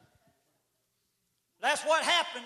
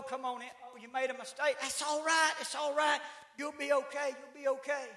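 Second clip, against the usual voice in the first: softer, coaxing mother's comfort; mock-tender mama cooing softly; soothing mama; 3 dB quieter than usual. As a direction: hush and console like a fussing mother. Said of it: "the mama comes in".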